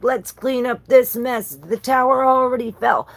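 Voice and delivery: a king commanding the cleanup; voicing the king. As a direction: give the order like a king rallying troops. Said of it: "It's like".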